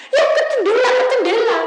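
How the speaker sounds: high, loud repeated answer; mock reply. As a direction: imitate the caller pointing out. Menirukan jawaban jemaat. (suara tinggi menirukan jemaat)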